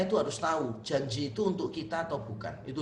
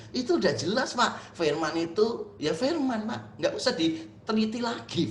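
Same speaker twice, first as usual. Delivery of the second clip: mocking imitation; 5 semitones higher than usual. Mocking the congregant's literalism.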